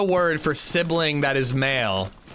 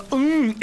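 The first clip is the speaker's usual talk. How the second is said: imitated reload hum; 11 semitones higher than usual. Shown as a demonstration. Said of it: "when you reload a Mosin".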